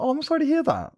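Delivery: very high rasping alien; squeaky little alien creature; Stitch voice. Acted. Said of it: "I need to fix my Stitch".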